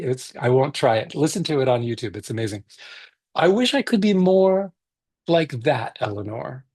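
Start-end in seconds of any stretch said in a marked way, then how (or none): 3.3-6.6 put-on reading a picture book aloud to kids; gentle read-aloud for a virtual story circle; story narration.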